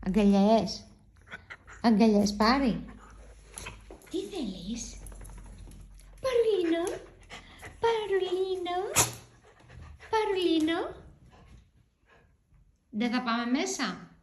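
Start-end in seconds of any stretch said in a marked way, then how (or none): 0.1-2.8 louder, coaxing the pet for hugs; loud coaxing call. Real, not acted. Owner calling her dog for hugs, loud and coaxing. 6.2-11.0 higher, sing-song pet name. Real, not acted. Owner cooing her dog's pet name, higher baby talk.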